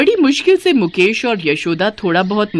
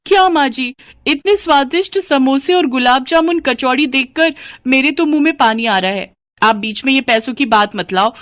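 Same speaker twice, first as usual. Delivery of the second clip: higher, gushing and dismissive; cheeky greedy daughter-in-law; 3 semitones higher than usual. Acted. Sunita to her mother-in-law over the snacks, gushing and cheeky. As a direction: brush off the scolding with a full mouth of glee.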